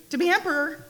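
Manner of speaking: high, loud call across the sea. A narrator's reading. Fisherman calls the wife's wish to the flounder, loud and high. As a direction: fisherman calls his answer over the waves, pitched high. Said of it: "the fisherman called".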